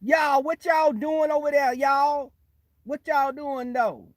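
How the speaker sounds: loud, high-pitched imitated holler; exaggerated loud y'all greeting; mock code-switch. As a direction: call out big and folksy, mocking them. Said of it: "when they come around you, they be like".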